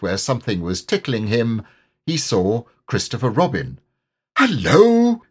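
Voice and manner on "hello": high, loud happy hello; loud joyful shout, much higher. A narrator's reading. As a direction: shout with joy. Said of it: "he shouted joyfully".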